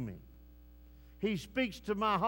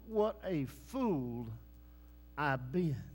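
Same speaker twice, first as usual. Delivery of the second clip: 1 mild regretful sigh; slower than usual. Retold or imitated. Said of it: "Or will you say".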